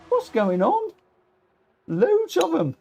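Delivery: squeaky, incredulous outburst; high-pitched bafflement. Real, not acted. Streamer swamped by foreign chat messages, squeaky bafflement. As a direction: let the voice leap right up in disbelief.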